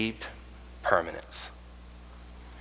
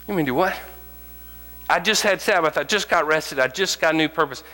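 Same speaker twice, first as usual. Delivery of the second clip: incredulous believer; 6 semitones higher than usual. Acted. Believer answering God's call, high incredulous protest. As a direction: push back, amazed and put upon.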